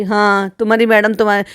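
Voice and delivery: ordinary talk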